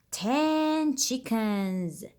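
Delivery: gasp, then slow and amazed; slow wonder at the find; mock surprise.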